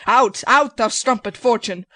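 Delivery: hammy stage actor. Acted. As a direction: rail at Fortune like a tragedian. Player rails at Fortune.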